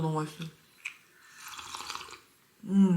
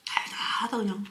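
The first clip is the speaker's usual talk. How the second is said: whispering; 5 dB quieter than usual. Real, not acted. Quiet aside while eating.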